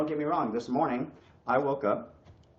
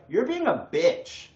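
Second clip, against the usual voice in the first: higher, slow, deadpan call-out; mock friend, slow and pointed; blunt friend; 10 semitones higher, slower than usual. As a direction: imitate a friend bluntly calling him out. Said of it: "they would just straight up tell me".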